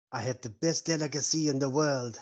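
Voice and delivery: lightly put-on French accent. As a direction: play a mock-French host touting a delicacy. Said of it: "That's why his voice is like that".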